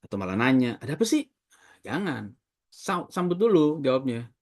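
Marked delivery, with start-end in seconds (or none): 0.8-1.2 rude reply. Retold or imitated. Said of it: "malah marah-marah".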